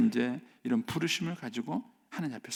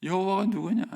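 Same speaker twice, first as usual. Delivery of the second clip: defiant Pharaoh; 6 semitones higher, 6 dB louder than usual. Acted. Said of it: "이거예요".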